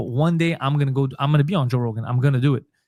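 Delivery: plain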